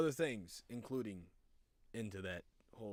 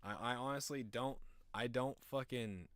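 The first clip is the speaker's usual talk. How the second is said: ordinary delivery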